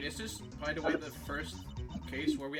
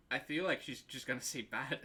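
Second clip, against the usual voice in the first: put-on valley girl voice; 5 dB louder than usual. Same ditzy girl character.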